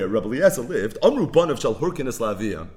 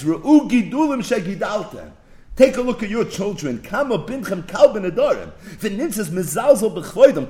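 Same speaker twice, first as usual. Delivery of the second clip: mocking quote; 6 semitones higher, 5 dB louder than usual. Quotes people mocking the parents.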